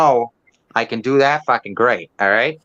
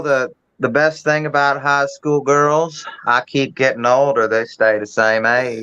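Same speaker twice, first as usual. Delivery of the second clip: Matthew McConaughey quote. Retold or imitated. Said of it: "It's a quote".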